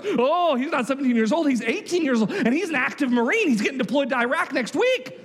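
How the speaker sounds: lightly acted excitable kid; rumour-topping schoolboy. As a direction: outdo a friend's tall tale. Next boy tops the rumour.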